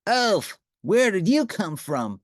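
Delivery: loud, startled outcry; jolted by a sudden crash; startled cry. A narrator's reading. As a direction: Lorenzo startled as Grover lands on him. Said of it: "cried Lorenzo".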